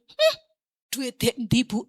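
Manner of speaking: "Hmm" tinggi, lalu nada mengejek sambil tertawa; teman sambil tertawa. Retold or imitated. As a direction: tiru teman yang pergi sambil mengejek. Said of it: "Dia sambil ketawa pergi". (ejekan teman sambil tertawa)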